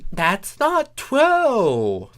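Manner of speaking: drawn-out high protest as Thorax; high slow protest. Acted. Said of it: "Thorax protested".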